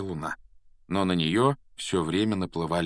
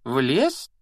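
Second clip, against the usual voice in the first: alarmed; 6 semitones higher, 4 dB louder than usual. A narrator's reading. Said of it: "голос у него был совсем не такой самоуверенный".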